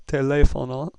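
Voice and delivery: teléfono with the second syllable "lé" stressed. Shown as a demonstration. Teacher applying the accent mark rule, stress on LÉ. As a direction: punch the "lé" in teléfono. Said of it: "the stress must be on that syllable".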